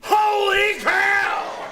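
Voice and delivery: high, loud shocked cry with a laugh in it; shocked exclamation. Acted. Principal finding a balloon dancer in his office, shocked shout. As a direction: blurt it out, thrown completely.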